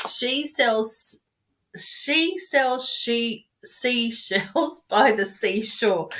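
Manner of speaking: slow "she sells seashells by the seashore", tripping over "she-" and laughing through it; stumbling tongue twister. Shown as a demonstration. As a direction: fumble the twister and laugh at yourself. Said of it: "I can't even say it".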